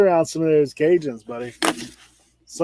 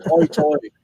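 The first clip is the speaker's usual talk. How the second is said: Outer Banks brogue. Shown as a demonstration. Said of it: "but they say".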